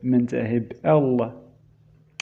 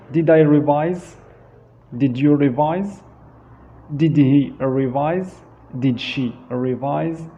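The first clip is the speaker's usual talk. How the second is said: teacher's question drill. Shown as a demonstration. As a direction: model each question with a clear rise. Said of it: "here we can say".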